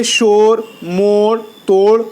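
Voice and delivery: "شور، موڑ، توڑ" with o, never oo; open o vowel. Shown as a demonstration. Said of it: "جو کھینچ کر نہ پڑھا جائے".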